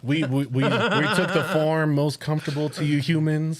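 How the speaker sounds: lightly imitated alien with a laugh. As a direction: address the humans as a mock alien. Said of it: "imagine aliens speaking like that".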